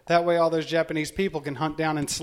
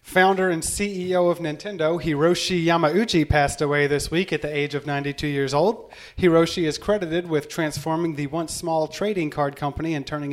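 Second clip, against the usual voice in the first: deadpan news anchor delivery; news read. Shown as a demonstration. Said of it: "I'll deliver it like a news article".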